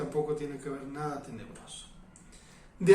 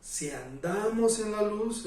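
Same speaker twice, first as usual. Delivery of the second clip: "andamos" raised against "decimos"; stress on ANDAMOS; 4 semitones higher, slower than usual. Real, not acted. Preacher correcting saying to walking, stress on "andamos". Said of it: "no si decimos, sino".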